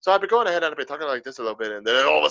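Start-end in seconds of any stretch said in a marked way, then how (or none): 0.7-1.7 light, tipsy Irish brogue; Irish accent. Shown as a demonstration. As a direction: talk with an easy Irish accent. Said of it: "and then my Irish started".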